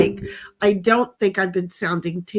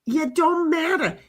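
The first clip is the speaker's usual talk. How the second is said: deadpan put-down; 5 semitones higher than usual. Pretend. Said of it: "As I tell my clients".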